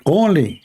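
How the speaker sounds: Only. said alone, high and falling; stress on only. Real, not acted. Repeating only to a live audience, stressed. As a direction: hit the word Only hard on its own. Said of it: "what we were able to collect only".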